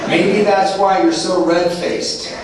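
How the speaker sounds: slow, drawn-out, laughing poster of a rock star; lightly voiced rock star, slow and amused. The rock star on the poster teasing the sponsee, slow and laughing. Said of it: "Eric said".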